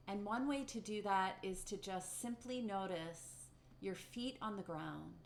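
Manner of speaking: gently paced meditation guidance with long pauses; lightly held meditation-teacher delivery, leaving room to notice; guided meditation. Acted. Teacher guiding the community through a short meditation, guided meditation.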